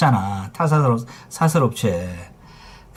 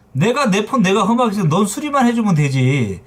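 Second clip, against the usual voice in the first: brazen retort; 5 semitones higher than usual. Retold or imitated. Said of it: "너무 당당한 거야".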